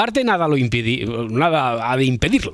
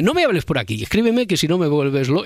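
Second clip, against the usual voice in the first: usual speaking voice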